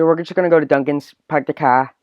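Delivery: light Boston accent; park the car in an easy Boston accent; Boston accent demo, lightly done; Bostonian accent. Shown as a demonstration. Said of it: "like, a Bostonian accent".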